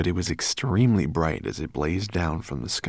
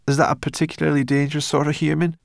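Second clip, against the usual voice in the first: high, loud, quick creature voice; inquisitive brownie girl; 9 semitones higher, 5 dB louder, faster than usual. Acted. Sorrel asking Ben about a dangerous human, wary. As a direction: fire off a wary question.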